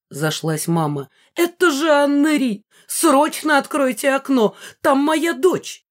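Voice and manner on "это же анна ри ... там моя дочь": much higher, louder, panicked pleas; a mother crying out for her child; shrieking mother in alarm; frantic mother. A narrator's reading. Mother recognises her daughter.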